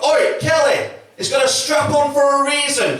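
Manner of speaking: put-on mum shouting after her kid; high-pitched call from behind, loud and mocking; grito de madre. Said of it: "her mum shouts up from behind her".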